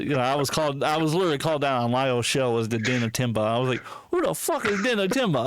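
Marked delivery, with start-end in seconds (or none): 4.1-5.4 higher-pitched mock bewilderment; baffled retelling. Streamer retells his reaction to a nickname, baffled. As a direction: act out mild, puzzled outrage.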